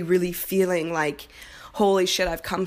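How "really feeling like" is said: whispered. Real, not acted. Emotional reflection.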